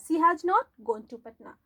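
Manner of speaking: slow, word by word: "she has not gone to Patna"; teacher reading the right sentence slowly; slow correct dictation. Shown as a demonstration.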